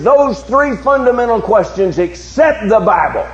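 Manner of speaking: impassioned sermon challenge to the congregation; forceful preaching. Real, not acted. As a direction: preach it out with driving, sustained emphasis.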